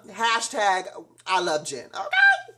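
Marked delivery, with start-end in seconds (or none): 1.9-2.5 shout. Real, not acted. Vlogger exclaims after loving Jen.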